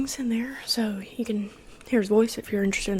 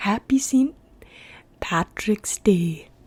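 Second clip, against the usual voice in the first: attempted Scottish accent. Speaker practising a Scottish accent on a holiday greeting, attempted Scottish accent. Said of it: "That was actually not that bad".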